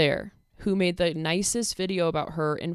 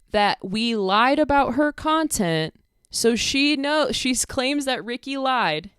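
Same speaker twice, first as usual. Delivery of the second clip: incredulous rant; 6 semitones higher, 5 dB louder, slower than usual. Real, not acted. Incredulous rant about her claim.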